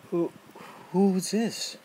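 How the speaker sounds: high, loud, stammering fright; boy seeing the beast loom up, frightened; startled fear. Acted. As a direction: gasp it out in sudden fear.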